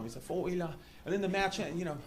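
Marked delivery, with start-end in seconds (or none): 0.2-0.7 soft, put-on British score call; British umpire accent. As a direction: announce it in a fake British accent. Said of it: "he's, he's British".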